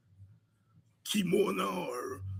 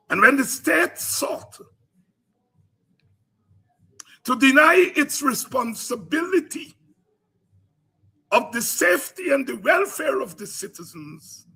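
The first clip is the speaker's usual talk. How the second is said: preaching; 6 semitones higher, 6 dB louder than usual. Real, not acted. Fiery political oration.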